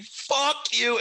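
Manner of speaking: high-pitched mock yell; retold outburst. Friend turning on the bouncer, high comic outburst.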